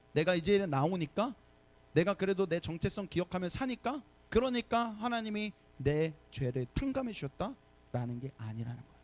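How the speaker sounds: normal talking voice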